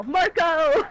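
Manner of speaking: loud high laughing shout; laughing call. Real, not acted. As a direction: call out, then burst laughing. Calling then laughing.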